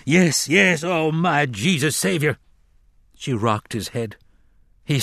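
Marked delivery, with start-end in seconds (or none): 0.1-2.4 high, fervent outburst; eager. A narrator's reading. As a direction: leap at it with eager devotion.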